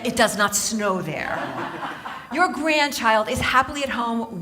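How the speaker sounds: firm, mock-exasperated correction; exasperated daughter. Daughter corrects mom gnome before work, mock exasperation. Acted telling-off of imagined mom.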